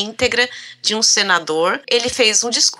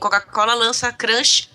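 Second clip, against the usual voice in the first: usual speaking voice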